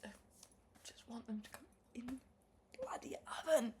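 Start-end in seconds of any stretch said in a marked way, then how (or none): 2.9-3.7 sharp forceful whisper; exasperated whispered swear; whispered curse. Real, not acted. Cursing the oven.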